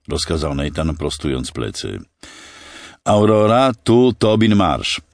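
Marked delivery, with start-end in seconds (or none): 3.0-5.0 higher, louder radio hail; voice over loudspeaker. A narrator's reading. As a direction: hail a ship, stretching the words out. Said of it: "usłyszeli z głośnika".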